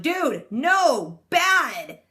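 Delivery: high, loud scolding at the screen; scolding yell. Real, not acted. Viewer scolding the kid with the gun, loud and high.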